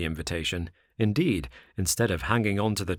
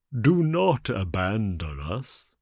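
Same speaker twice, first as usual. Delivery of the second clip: slow, drawn-out plea for mercy; wailing, pleading fox; pitiful begging; slower than usual. A narrator's reading. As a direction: drag it out like a beggar. Fox begs once more.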